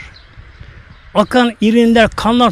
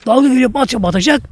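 panicked cry; 5 semitones higher than usual. Retold or imitated. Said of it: "profesörler paniğe kapılıyorlar".

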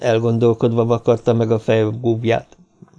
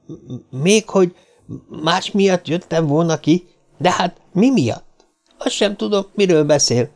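little man denying the lie, higher and indignant; indignant denial; 7 semitones higher than usual. A narrator's reading. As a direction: act wounded innocence. Little man protests, caught lying.

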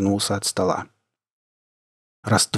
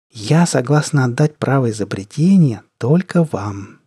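sugary sweet; 2 semitones higher than usual. Acted. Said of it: "сладко и приторно протянула девушка".

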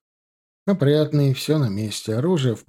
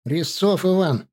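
mild parade-ground call, higher and drawn out; called-out name; 5 semitones higher, slower than usual. A narrator's reading. Soldier reporting to his section commander, mildly called out. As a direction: sound off your name slowly, without real volume. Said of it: "выкрикнул стоя на вытяжку".

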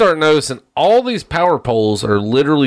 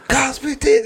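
Bill Cosby impression; 11 semitones higher than usual. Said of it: "he's like".

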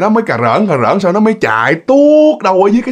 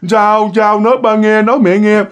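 lightly acted parent coaxing a child; higher, anxious questioning; worried parent; 5 semitones higher than usual. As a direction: gently press a crying child to talk. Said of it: "vuốt mày nó".

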